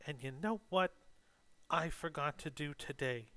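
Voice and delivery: lightly voiced drunk player character; chirpy tipsy boast. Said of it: "And she's like".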